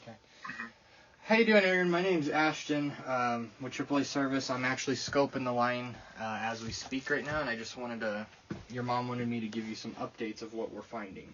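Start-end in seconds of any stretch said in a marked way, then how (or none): 1.2-7.6 speaking up. Real, not acted. Speaking up to phone.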